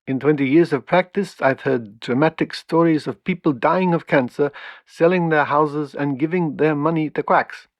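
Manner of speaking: lightly put-on Belgian accent for a professor's quote; a hint of a Belgian accent, mostly the host's own voice. Host reading a Brussels professor's words, faint Belgian accent. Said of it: "apologies for my appalling Belgium accent".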